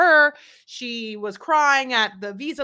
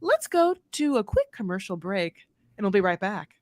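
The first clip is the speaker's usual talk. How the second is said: lightly voiced host break line; a hint of the TV host tossing to commercial; imitating Sean Robinson. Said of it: "do a little Sean Robinson".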